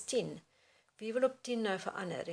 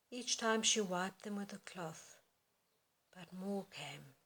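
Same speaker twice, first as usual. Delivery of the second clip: gentle reading; slower than usual. Shown as a demonstration. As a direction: read it gently, from the heart. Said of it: "very gentle, very beautiful".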